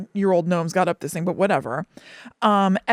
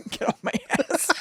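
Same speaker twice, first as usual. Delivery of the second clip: whispered retort; 7 semitones higher, 3 dB quieter than usual. Real, not acted.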